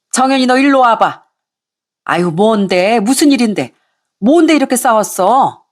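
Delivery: a hint of an indignant mother-in-law; scolding mother-in-law. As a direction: lecture them like an angry in-law.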